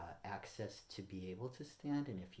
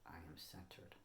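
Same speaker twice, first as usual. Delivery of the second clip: soft affirmation; 2 semitones lower, 9 dB quieter than usual. Real, not acted. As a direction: let it drop very soft, as a meditation affirmation. Repeats affirmation during centering exercise.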